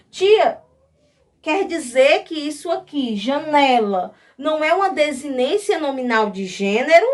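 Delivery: lightly acted pupil calling out a doubt; a hint of a pupil querying teacher; imagined student.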